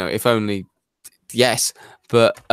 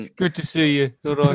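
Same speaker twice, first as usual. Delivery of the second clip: put-on Black Country accent; 3 semitones higher than usual. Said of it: "in character accent?".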